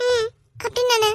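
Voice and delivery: slow, tearful; crying. Acted. Friend tearing up, crying. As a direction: speak through crying.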